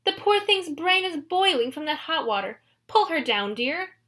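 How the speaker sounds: high put-on bridal voice; fake bride. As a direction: cover panic with fake sweetness. Grover keeps bride act.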